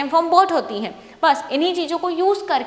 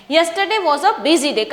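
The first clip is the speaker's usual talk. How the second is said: slow, clear read with a falling end at the full stop; reading with proper intonation; 3 semitones higher, 3 dB louder, much slower than usual. Shown as a demonstration. Teacher reading a paragraph aloud for students, slow with clear intonation. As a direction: read it slowly, letting the voice drop at the full stop. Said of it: "full stop आ गया".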